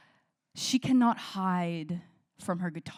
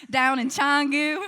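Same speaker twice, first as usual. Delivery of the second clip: redoing the phrase through real laughter, a bit louder; laughing it back to normal; 8 semitones higher, 7 dB louder, slower than usual. Real, not acted. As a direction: laugh while saying it again without the country accent.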